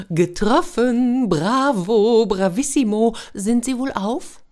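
high, loud jubilant cheering; captain celebrates the rescue, high and loud; delighted cheer. Acted. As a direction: cheer the hit in triumph.

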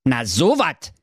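mildly baffled Berliner "Na so wat"; a touch of bewilderment; flabbergasted. Acted. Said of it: "ganz verdattert". (leicht verdattert)

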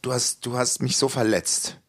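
quietly hurt, said calmly and softly; calm and soft, the hurt held back. Retold or imitated. Hurt woman calmly telling her boyfriend, soft and calm. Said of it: "Hat sie das ganz ruhig gesagt".

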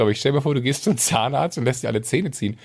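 normal talking voice

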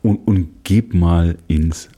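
drawn-out, fading to a whisper; slow dramatic handover. Acted. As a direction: stretch it out, then whisper the last word. Dramatic handover to outside studio.

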